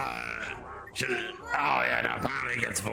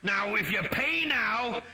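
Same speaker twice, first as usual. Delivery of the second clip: late night infomercial; 9 semitones higher, 4 dB louder than usual. Retold or imitated. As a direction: sell it like an old infomercial. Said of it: "reminded me of, like, really old, like, three in the morning adverts".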